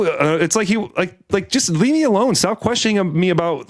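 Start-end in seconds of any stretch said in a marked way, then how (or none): 1.5-3.7 high, fed-up leave me alone; fed up with a stranger's questions, exasperated; exasperated plea. Retold or imitated. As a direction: beg to be left alone.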